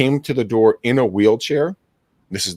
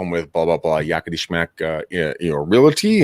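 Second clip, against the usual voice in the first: chirpy salesman. Retold or imitated. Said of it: "I'd be like".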